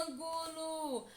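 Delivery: ÂNGULO called slowly, first syllable AN held very long; drawn-out calling. Shown as a demonstration. Teacher shows pupils the stressed syllable, calling ÂNGULO with a long AN. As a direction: stretch the AN of ÂNGULO as if calling someone. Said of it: "basta pronunciar lentamente, como se estivesse chamando alguém".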